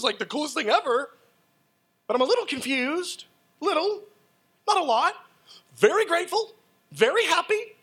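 high, sing-song forced enthusiasm; mock polite gushing. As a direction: gush politely while hiding confusion. Retelling his reaction to gift.

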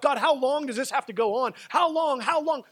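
loud, high, anguished appeal; crying out. Acted. Preacher as psalmist asks God how long, crying out. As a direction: hurl the question up at God. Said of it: "I cried out".

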